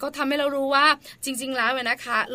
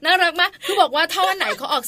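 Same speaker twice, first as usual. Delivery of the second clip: laughing; 5 semitones higher, 6 dB louder than usual. Real, not acted. Teasing cohost about her accent.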